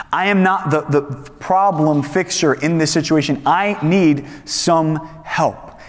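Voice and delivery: slow, emphatic confession with pauses; deliberate, weighted plea for help; pleading admission. Acted. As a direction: admit it firmly, word by word. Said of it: "reached that place of saying".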